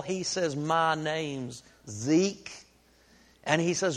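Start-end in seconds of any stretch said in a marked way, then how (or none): 0.6-2.5 slow, lightly drawled hillbilly reply; a hint of a backwoods drawl. Zeke answering the preacher, slow hillbilly drawl. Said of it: "with a hillbilly drawl".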